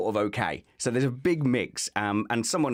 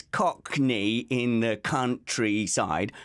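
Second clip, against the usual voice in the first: careful and slow; much slower than usual. Shown as a demonstration. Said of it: "I had to say it very, very slowly".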